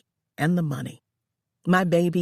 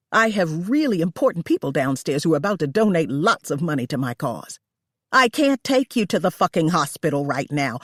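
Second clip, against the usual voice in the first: a bit louder, annoyed and dismissive; a hint of a hostess refusing help; lightly voiced selfish hostess; 4 dB louder than usual.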